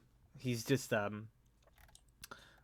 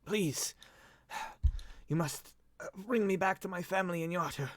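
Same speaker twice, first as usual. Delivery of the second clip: higher, halting appeal; cracked, broken plea; 8 semitones higher than usual. Acted. Lord begging to be taken home, weak plea. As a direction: plead weakly with the rescuers. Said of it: "cracked and broken".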